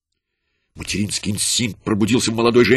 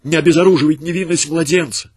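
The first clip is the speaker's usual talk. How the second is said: higher, earnest plea; pleading; 6 semitones higher, 4 dB louder than usual. A narrator's reading. Mother begging the soldiers to spare her son, high and earnest. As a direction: beg for your child. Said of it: "умоляла она".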